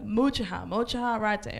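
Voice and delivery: "mocha" with a CH and an extra "hah"; mispronounced mocha. Retold or imitated. Customer repeating her order, saying "mocha" as MOH-chuh-hah. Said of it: "it's not pronounced mocha".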